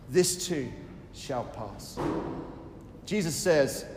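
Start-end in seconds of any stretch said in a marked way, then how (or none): 0.1-2.0 soft repeated refrain. Shown as a demonstration. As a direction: lower and much softer, fading out. Repeated softer and lower.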